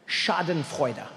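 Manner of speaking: Schadenfreude said slowly, every syllable; German word Schadenfreude. Shown as a demonstration. Teaching the audience a German word, slow. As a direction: spell out Schadenfreude, slow and clear. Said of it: "German word".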